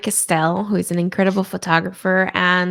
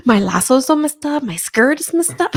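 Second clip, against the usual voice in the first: quick, higher-pitched fretting; mock dismay; 5 semitones higher than usual. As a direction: fret playfully, breaking into a laugh. Retelling dismay at viral photo.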